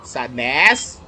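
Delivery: drawn-out call growing into a shout. Real, not acted. Player calling out to Sadness, insistent rising shout.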